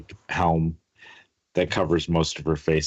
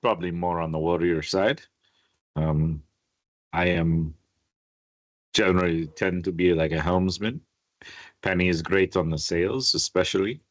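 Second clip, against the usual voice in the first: Quentin. Acted. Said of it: "Quentin goes".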